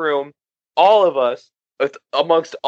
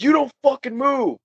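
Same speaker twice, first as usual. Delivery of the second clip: retold stern order; 9 semitones higher than usual. Friend pinning a brawler on the wall, retold stern order. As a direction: imitate a friend pinning someone in place.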